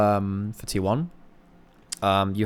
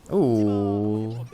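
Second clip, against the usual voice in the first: drawn-out ooh. Real, not acted. Caster watching whether the carry dies, drawn-out ooh. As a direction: let out a slow, drawn ooh. Caster reacting to live play.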